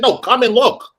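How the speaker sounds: high, insistent command; retold scolding. Boss orders housekeeper to look, exasperated insistence. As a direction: insist that he comes over.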